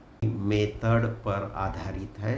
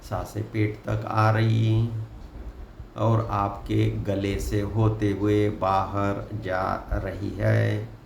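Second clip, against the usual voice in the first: guided meditation. Acted. Guide asking listeners to close eyes and breathe deeply, in an unhurried meditation voice. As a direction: lead them gently into relaxation, phrase by phrase.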